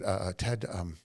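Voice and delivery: imitating a hesitant, nervous caller; halting, with ums and repeated starts, mildly nervous; nervous stammering. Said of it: "He was, like, nervous".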